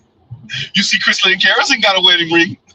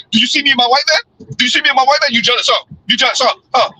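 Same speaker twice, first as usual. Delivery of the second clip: a lightly voiced, higher taunting woman; mocking show-off woman; 3 semitones higher than usual. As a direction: tease like she is flaunting her man. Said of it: "and be like".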